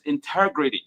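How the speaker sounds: ordinary delivery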